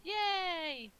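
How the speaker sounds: high, loud whoop of joy; delighted cheer. Real, not acted. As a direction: celebrate a lucky roll. Enemy rolls a natural one.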